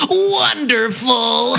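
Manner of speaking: slow, drawn-out mock-dry "wonderful"; deadpan Leonardo quip. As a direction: stretch it out like an unimpressed hero. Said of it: "pops out of the smoke and goes".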